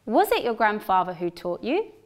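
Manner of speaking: unstressed "Was" at the start; weak was in question. Shown as a demonstration. Teacher models the question with weak "Was". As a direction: say "Was" reduced and quick. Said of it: "listen to the sentences twice".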